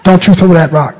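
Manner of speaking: "Don't you" run into one word, dontchu, stress on "you". Shown as a demonstration. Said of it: "One word".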